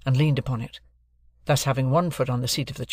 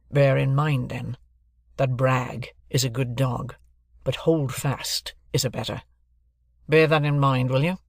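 raised, deliberate lawyer's voice; stern lawyer. Acted. Jaggers introducing himself to Joe and Pip, stern lawyer. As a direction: announce yourself like a cool London lawyer.

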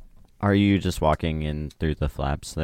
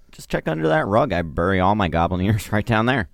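character voice; 4 dB louder than usual. Acted. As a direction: pitch up for the NPC. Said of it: "He says".

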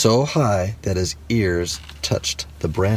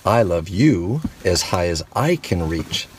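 big hare. Acted. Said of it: "said Big Nut Brown Hair".

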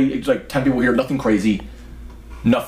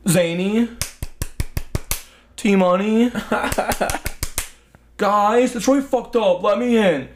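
mocking a drunk, much higher and slurry; drunk friend at the door; 9 semitones higher, slower than usual. Drunk Matt begging to be let in, high whiny mock voice. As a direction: whine through the door like a drunk buddy. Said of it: "And all I hear is".

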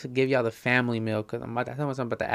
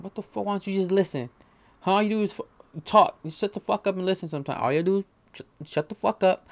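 mock telling off; 2 semitones higher than usual. Telling off an annoying person, mock-bossy rant. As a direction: put someone in their place, half-playing. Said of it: "I might do it to somebody".

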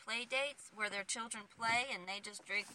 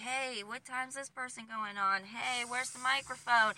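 mock event-runner shouts, getting louder; imitated shouting; 3 semitones higher, 5 dB louder than usual. Co-host recalling shouting at shows, imitated shouting. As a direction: call out harried demands, building in volume. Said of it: "When you're shouting like".

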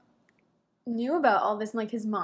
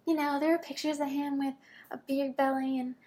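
higher-pitched, lightly imitated Texas accent; 4 semitones higher than usual. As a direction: put on a touch of a woman's Texas accent. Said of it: "her Texas accent".

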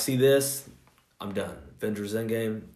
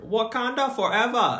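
imitated moviegoer's shout; 10 semitones higher than usual. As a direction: call it out like an obnoxious moviegoer. Imitating a moviegoer calling out mid-scene.

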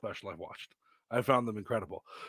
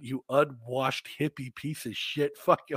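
mock rant; slower than usual. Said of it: "just went on a tear".

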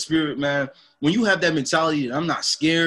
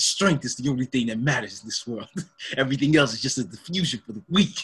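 Vegeta quote; 3 semitones lower than usual. Retold or imitated. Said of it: "He laughed and he said".

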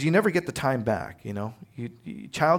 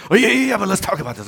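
pleading son; 7 semitones higher, 6 dB louder, much faster than usual. Retold or imitated. Son stalling before a spanking.

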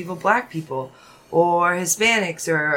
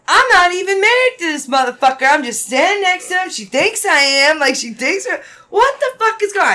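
outraged rant; 6 semitones higher than usual. Retold or imitated. Friend's outraged retold rant.

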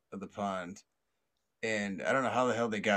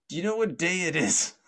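high, raised-voice question; imitated officer yelling; 8 semitones higher, 6 dB louder than usual. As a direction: call the question out like a cop. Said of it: "And then he yells".

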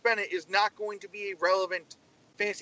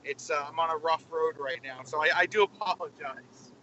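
talking from a car on a rough road; on a bumpy road; 4 semitones lower than usual. Real, not acted. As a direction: road rumble under the voice. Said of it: "is there something wrong with your car".

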